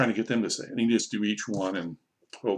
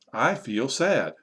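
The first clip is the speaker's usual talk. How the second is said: slow, connected teaching delivery; model sentence; much slower than usual. Shown as a demonstration. Teacher modelling a feeling sentence, slow but connected. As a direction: say it slowly as one sentence.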